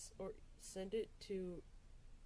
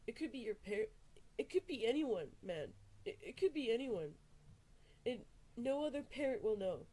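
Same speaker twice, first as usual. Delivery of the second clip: urgent; 5 semitones higher, 5 dB louder than usual. Real, not acted. Urgent warning to parents.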